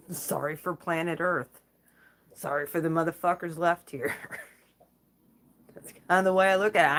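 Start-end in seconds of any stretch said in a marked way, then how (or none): 4.2-7.0 laughing whisper. Real, not acted. Laughing aside after dark joke.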